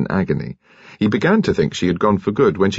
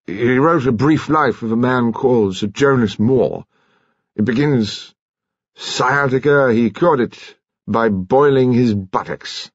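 slow, slightly raised storyteller's quote; awkward commander; 4 semitones higher than usual. A narrator's reading. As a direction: recite it haltingly as the commander.

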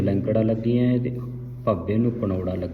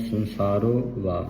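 slow ਸੰਸਾਰੋ, then a separate ਵਾ; split pronunciation; slower than usual. Shown as a demonstration. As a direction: set ਵਾ apart from ਸੰਸਾਰੋ. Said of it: "ਸੰਬੰਧਕ ਲਾਉਣਾ ਹੈ". (ਸੰਸਾਰੋ ਤੇ ਵਾ ਵੱਖ-ਵੱਖ ਬੋਲੋ)

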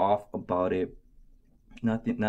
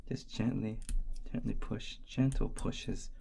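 mock midwife. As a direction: coach a birth as a joke. Mock birth coach.

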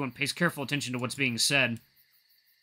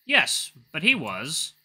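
sneering; 3 semitones higher, 4 dB louder, much slower than usual. Acted. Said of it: "The chief sneers through his clenched teeth".

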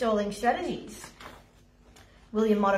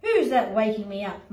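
sleepy lion; 6 semitones higher than usual. Acted. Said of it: "mumbled the lion".

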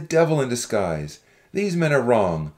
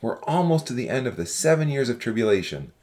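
low-pitched, forceful character harangue; restrained shout of an accusing young man; shouted warning; 9 semitones lower than usual. A narrator's reading. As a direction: call out a warning without much volume. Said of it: "a young man stood up and shouted".

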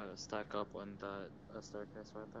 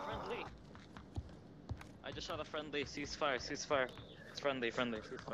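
raised urgent ceasefire call; urgent callout; 3 semitones higher, 5 dB louder than usual. Real, not acted. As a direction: call it out fast to the team. Teamkill, urgent callout to team.

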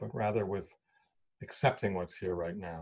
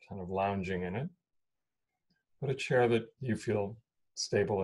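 unhurried meditation guidance with long pauses; guided meditation. Real, not acted. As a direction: guide them into stillness, leaving space between phrases.

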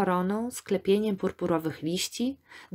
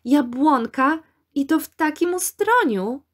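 high, loud cry of wonder; delighted exclamation; 8 semitones higher, 5 dB louder than usual. A narrator's reading. Girl exclaims over a hidden wild apple tree, delighted cry. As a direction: exclaim in delight at a surprise find. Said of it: "wykrzyknęła Ania w zachwycie".

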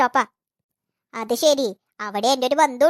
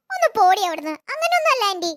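coy denial; 5 semitones higher than usual. Acted.

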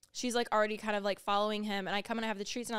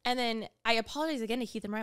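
ordinary talk, nothing marked

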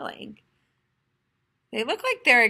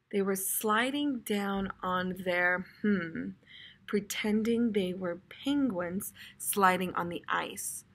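slow reading aloud; 3 semitones lower, 6 dB quieter than usual. Shown as a demonstration. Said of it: "skip over it and read the rest".

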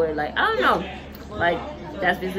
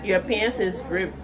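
Liberian accent; 4 dB quieter than usual. Shown as a demonstration. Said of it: "Liberian accent".

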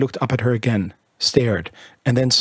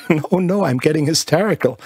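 higher, giddy, half-laughing protest; giddy laughter; 5 semitones higher than usual. Acted. Bertha catching herself laughing, giddy and higher. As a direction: laugh it off at yourself. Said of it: "she began to laugh".

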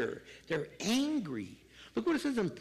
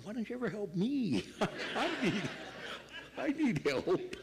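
mock whine. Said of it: "I'm going".

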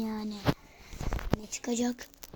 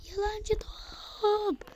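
mock sing-song; 11 semitones higher, much slower than usual. Mocking the ball.

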